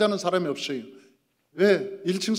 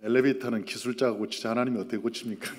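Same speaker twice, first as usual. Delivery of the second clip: grinning; 7 semitones lower, 5 dB quieter than usual. Retold or imitated. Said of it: "씩 웃으면서".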